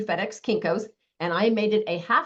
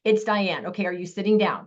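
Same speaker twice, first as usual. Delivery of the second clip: excited. Shown as a demonstration. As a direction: sell it like big news to a friend. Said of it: "I literally sound this excited".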